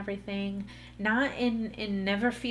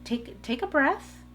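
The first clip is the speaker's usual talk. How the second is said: higher-pitched imitation of gentle soothing; lightly voiced, coaxing reassurance; reassuring husband; 4 semitones higher than usual. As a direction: imitate a husband talking his wife down. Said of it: "that is him reassuring me".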